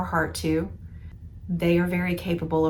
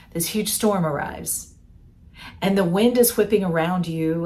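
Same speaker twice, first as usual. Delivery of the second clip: louder, urgent storm narration; louder dramatic narration; dramatic storytelling; 4 dB louder than usual. Acted. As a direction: build the danger as the storm hits. The imagined storm hits.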